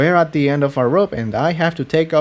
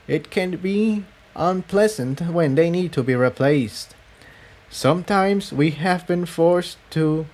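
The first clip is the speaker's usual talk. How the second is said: lightly raised, measured voice of a grave rebel leader; Cerulean's voice; 4 semitones higher than usual. Acted. Cerulean explains the attenuator to Jigsaw, grave and measured. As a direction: explain the dark secret carefully, a touch higher. Cerulean tells of her defection.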